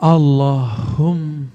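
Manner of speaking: Allahum slow, closing on a long hum; model reading. Shown as a demonstration. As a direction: open on Allah, then close into hum. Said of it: "Allah kan buka".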